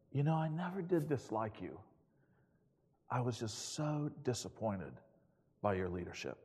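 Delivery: softly retold, gently sincere; quiet, understated reconciliation; sincere confession. Man's words while hugging pastor.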